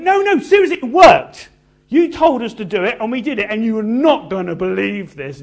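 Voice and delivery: high, loud, breathless excitement; thrilled disbelief. Acted. Disciples telling Jesus it worked, loud and thrilled. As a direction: gush like kids who can't believe it worked. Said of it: "And they're going".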